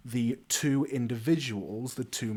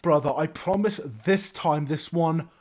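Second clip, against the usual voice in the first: higher, louder wheedling voice; pleading bard brother; 6 semitones higher, 5 dB louder than usual. Acted. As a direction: plead your innocence, pitch climbing. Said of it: "His brother walks over to him and goes".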